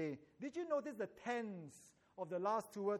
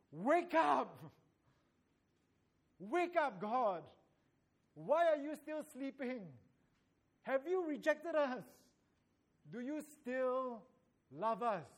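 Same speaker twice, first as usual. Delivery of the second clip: pleading cry; 4 semitones higher, 3 dB louder than usual. Acted. Pleading psalm of lament.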